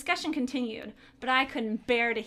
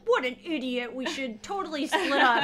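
mocking sarcastic; 6 dB louder than usual. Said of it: "He's like".

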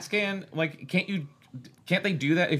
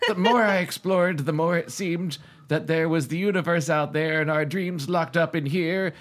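committed narrator voice. Acted. Host reading a novel aloud in a committed narrator voice. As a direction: read it out with a narrator's measured formality.

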